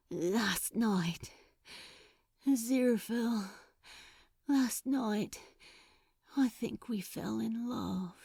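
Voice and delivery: soft, fading to unvoiced whisper; whispered confession. A narrator's reading. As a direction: confess it barely above a breath.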